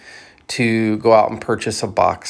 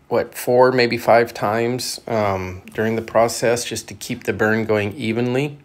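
talking around cigar; cigar in mouth. Real, not acted. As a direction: lips clamped on cigar. Seen 0: Cigar held between lips through nearly all labelled speech.

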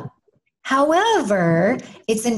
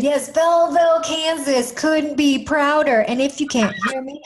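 hometown cheer; 4 semitones higher than usual. Acted. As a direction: belt it out like a cheerleader for her town. Cheering for her hometown Belleville.

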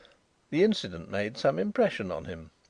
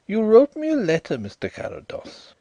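Indian visitor voice; 11 semitones higher, 7 dB louder than usual. A narrator's reading. Drishna voiced in story.

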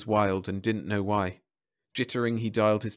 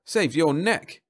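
louder, higher policeman voice; a cop claiming credit; 7 semitones higher, 5 dB louder, slower than usual. A narrator's reading. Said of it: "said the cop".

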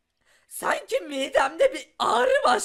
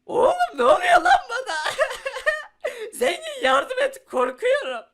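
panicked shout; 7 semitones higher than usual. Acted. Player scared by the potion, shouting in panic. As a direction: yell it as the world spins.

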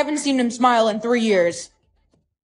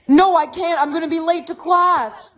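higher, urgent call back; flustered, raised-pitch brush-off; hurried excuse; 5 semitones higher than usual. Acted. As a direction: call it out while rushing off. Hurrying away, calling back.

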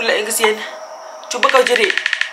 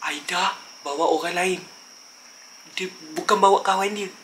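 hushed dread; 5 semitones lower, 9 dB quieter than usual. Acted. Realizing something else came along.

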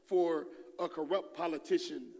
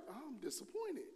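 put-on soft disappointed kids; 8 semitones higher, 9 dB quieter than usual. Daughters' disappointed remark.

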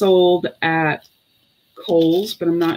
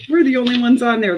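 laughing; 6 semitones higher, 7 dB louder, faster than usual. Real, not acted. Laughs at viewer comment.

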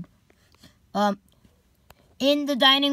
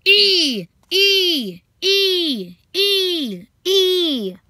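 shrieking; 8 semitones higher, 4 dB louder, much slower than usual. Acted. Opening shriek before story.

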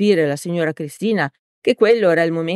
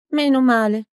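put-on higher, relieved old lady; relieved sigh; 8 semitones higher than usual. A narrator's reading. Old woman relieved by the priest, mild sigh. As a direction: let the relief out gently. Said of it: "sospirò rasserenata".

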